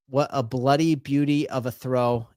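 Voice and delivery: put-on light Australian accent, cheerful; lightly voiced Australian bloke accent. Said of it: "in the best Australian accent I can muster".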